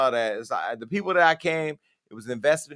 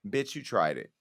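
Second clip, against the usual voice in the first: lightly voiced rich Asian lady, a touch lower; a hint of a haughty rich Asian woman brushing someone off; mild put-on rich Asian voice; 5 semitones lower, 4 dB quieter than usual. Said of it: "in my best rich Asian voice".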